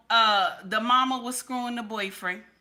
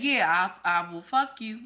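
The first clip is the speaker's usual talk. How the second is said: laughing threat; 4 semitones lower than usual. Retold or imitated. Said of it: "He said".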